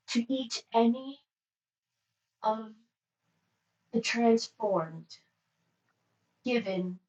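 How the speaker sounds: strong, even monotone attendant. Acted. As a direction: speak with no rise or fall. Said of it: "monotone voice".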